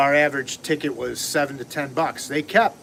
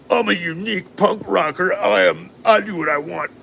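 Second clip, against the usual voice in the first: sneering, higher put-on voice of a self-important punk; mock punk rocker; 4 semitones higher than usual. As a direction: lampoon the 'unique' punk bartender, a touch higher. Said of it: "he was like the, the atypical".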